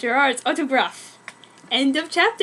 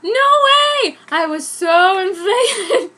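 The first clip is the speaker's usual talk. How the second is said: high, loud squeal breaking into laughter; laughing squeal; 6 semitones higher, 6 dB louder, slower than usual. Real, not acted. Reader cracks up at the silly wedding line, laughing squeal.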